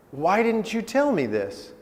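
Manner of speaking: high, pleading question; dismayed father. Retold or imitated. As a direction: ask it as a taken-aback dad. Father answers son's outburst.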